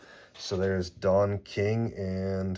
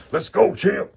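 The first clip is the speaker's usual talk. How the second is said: even higher, loud cheer with a rising end; bigger cheer; 12 semitones higher, 7 dB louder than usual. Real, not acted. Cheering the pulled champ card again, even higher. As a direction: cheer him on like he just won the belt.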